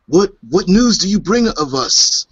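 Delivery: high, supplicating priest voice; reverent priest. Acted. Priest with upraised hands addressing the visitor, reverent. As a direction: ask it as a humble priest hailing a god. Priest hailing a descending being.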